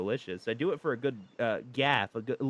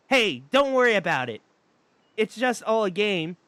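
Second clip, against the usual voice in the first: stoner vibe; 5 semitones higher, 4 dB louder than usual. Acted. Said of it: "kind of like a stoner vibe".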